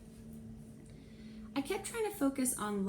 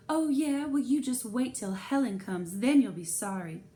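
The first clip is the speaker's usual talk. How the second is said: higher, louder playground taunt; childish threat; 4 semitones higher, 6 dB louder than usual. Pretend. Narrator imagines Mrs Spencer's playground threat, loud. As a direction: threaten like a kid.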